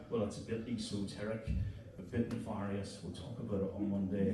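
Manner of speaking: a Belfast lad slipping into posh Royal Navy English; posh officer voice. Retold or imitated. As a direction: put on the la-di-da officer accent. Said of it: "my fucking voice is going the other way".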